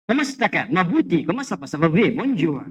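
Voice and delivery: put-on light French accent, casual and fluent; French greeting. Preacher shows Indonesians picking up French easily, lightly accented. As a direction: toss off a French hello like a local.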